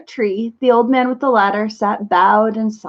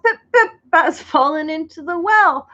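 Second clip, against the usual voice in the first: higher, breathless gasp through the line; gasping out the news; 4 semitones higher than usual. Acted. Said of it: "he gasped".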